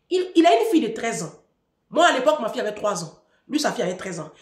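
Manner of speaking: ordinary talk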